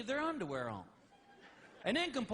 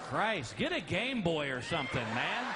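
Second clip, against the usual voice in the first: exasperated yell; 6 semitones lower than usual. Real, not acted. Exasperated comic punchline.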